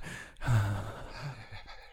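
long airy sigh; breathy exhale. Shown as a demonstration. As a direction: demonstrate a soft h as escaping breath. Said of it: "it's a little more breathy".

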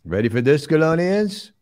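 building hype, rising pitch; excited announcer. Pretend. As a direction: hype up the crowd. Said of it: "We have an announcement".

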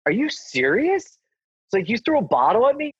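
high, disbelieving cry; incredulous outrage. Retold or imitated. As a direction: act shocked someone threw a bottle. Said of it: "I stand up, and I'm like".

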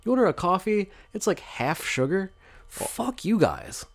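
laughing rant. Real, not acted. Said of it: "I feel that strongly".

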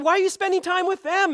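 high, puzzled objection; lightly voiced disapproving onlooker; objecting onlookers. Others objecting to Jesus.

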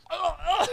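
high mock gasps for air; mock gasping. Cohost mimics driving with head out the window, high breathless gasps. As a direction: gasp as if the wind took your breath. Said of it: "you can't breathe and you can't see".

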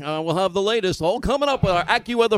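mock weather forecast. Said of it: "like a real reporter".

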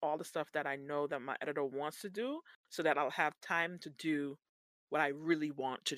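soft, muttered plan to herself; quiet inner thoughts. Retold or imitated. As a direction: say it softly under your breath. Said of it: "being like".

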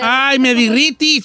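drawn-out, swoony mock melting; melted by a compliment. Don Cheto acts out someone receiving cute texts, mock swooning. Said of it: "así como cuando le".

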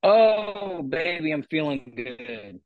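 garbled underwater robot audio; like a glitching robot underwater. Real, not acted. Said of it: "you already sound like a robot underwater".

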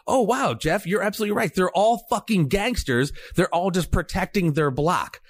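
mocking Pat's agreement. Jeff mimics Pat agreeing with him, mocking tone. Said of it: "what did you say at the end".

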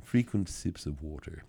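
quiet, savoring parody of a health tip. Pretend. Host softly repeating the slogan he enjoys mocking. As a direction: say the fussy slogan again, under your breath. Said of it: "I love it when I say it like that".

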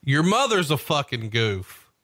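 slow, drawn-out retold comeback; Goldberg. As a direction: imitate an insult fired back, stretched out. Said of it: "And Goldberg replied".

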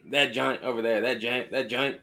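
"giant" said as "joy-nt", Baltimore style; Baltimore slang. Shown as a demonstration. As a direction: say "giant" with an oy vowel, like "joint". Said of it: "familiar with this Baltimore slang".

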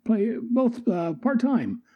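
put-on high, light Australian accent for Boomerang; lightly done Australian accent; Aussie voice. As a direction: play the cocky Australian rogue. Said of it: "And Boomerang's like".

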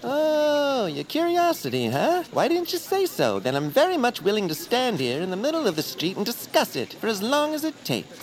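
high, overdone mock eagerness; ironic, sing-song offer to chat all day; sarcastic. Sarcastic mock enthusiasm about curiosity.

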